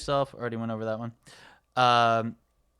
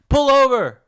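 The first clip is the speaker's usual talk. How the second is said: much higher and louder, a silly character voice; dopey character voice; 8 semitones higher, 8 dB louder than usual. Retold or imitated. Quoting the cardigan gag, in a high goofy voice. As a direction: blurt it out like a clueless goof. Acting out a movie exchange.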